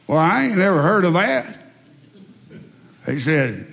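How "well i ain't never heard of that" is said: scoffing redneck. Retold or imitated.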